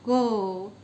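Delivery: क said loud with a clear अ after it; loud consonant demo. Shown as a demonstration. Teacher showing students that क carries अ: loud क. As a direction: sound क sharply so the अ rings. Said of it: "ये ध्वनि निकलती है जब हम क का उच्चारण करते हैं".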